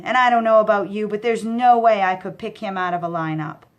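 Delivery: fast, loud worried rant. Acted. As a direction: rush it out in a panic.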